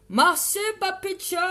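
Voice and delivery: shouting. Real, not acted. Streamer thanking a viewer, needlessly shouting. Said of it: "Je sais pas pourquoi je crie".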